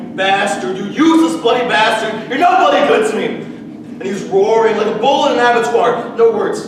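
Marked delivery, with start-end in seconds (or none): 0.1-3.3 put-on rising angry yell at a drunk husband; screaming at him. Mother screaming at her drunk husband, angry yell. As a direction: build from a snarl to a yell. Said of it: "she's screaming at him".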